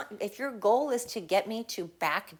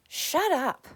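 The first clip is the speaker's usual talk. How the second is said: higher and louder second shut up; fed-up repeat, louder; sharper shut up; 8 semitones higher, 4 dB louder than usual. Real, not acted. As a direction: snap it out, harder this time.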